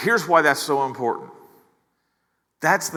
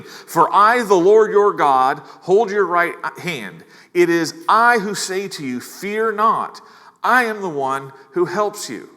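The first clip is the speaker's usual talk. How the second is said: raised, louder proclaiming voice of the Lord; voice of God; 4 semitones higher, 5 dB louder than usual. Retold or imitated. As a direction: declare it as God speaking, with weight. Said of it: "that is God speaking".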